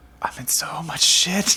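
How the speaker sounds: very drawn-out, slow, high-pitched whisper. Playing a character hugging someone and speaking into their ear: whispering. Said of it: "I just whisper in her ear".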